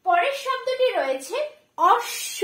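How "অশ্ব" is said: অশ্ব as osh-sho, the sh held double; doubled consonant. Shown as a demonstration. Teacher reads the next word for pupils, doubled consonant. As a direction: say অশ্ব with a long sh and no b. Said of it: "double উচ্চারণ হচ্ছে".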